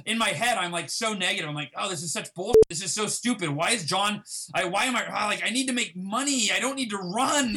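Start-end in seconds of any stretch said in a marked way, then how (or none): 1.8-7.6 mock angry rant. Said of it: "I'm just, like, angry".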